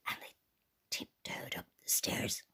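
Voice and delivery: soft, suspenseful whisper; hushed tiptoe. A narrator's reading. Bears creep up the stairs, hushed.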